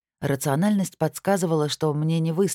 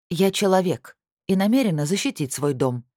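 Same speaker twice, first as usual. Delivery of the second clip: гневно, выше и громче; отрезать с гневом; 5 semitones higher, 3 dB louder than usual. Acted. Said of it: "припечатала я гневно". (гневно и твёрдо, выше обычного)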